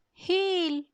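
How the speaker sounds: high, sharp dog command; commanding call. Acted. Wilfred orders his moose to heel, high and sharp.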